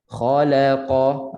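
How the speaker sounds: "khalaqa" with kha, la and qa each one full beat; full equal beats. Shown as a demonstration. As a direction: give the la in "khalaqa" as long as its neighbours. ("khalaqa" satu harakat setiap huruf)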